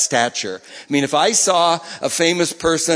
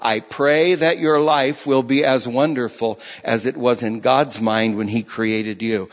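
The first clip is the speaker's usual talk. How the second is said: gentle repeat; 2 semitones lower than usual. Retold or imitated. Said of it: "Said it once".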